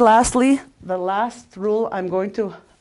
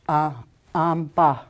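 am, ba with a louder ba; stress on second syllable; 4 dB louder, slower than usual. Shown as a demonstration. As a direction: break up A, am, ba, leaning on ba. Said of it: "the second syllable is always accented".

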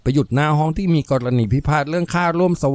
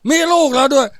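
loud, high-pitched jeer; scornful scoff; 10 semitones higher, 4 dB louder than usual. Acted. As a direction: scoff at the plea in a raised voice. Man scoffs at her plea. (เย้ยหยันเสียงดัง)

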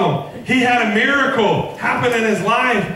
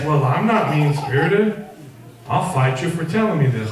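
defensive churchgoer; 5 semitones lower than usual. Retold or imitated. Voices a defensive, mean-spirited churchgoer.

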